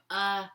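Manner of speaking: a startled uh like a jump scare; gasp-like uh at a jump scare; scary-movie uh. Retold or imitated. Boy showing his reaction to a scary face, startled uh. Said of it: "you say when you're watching a scary movie".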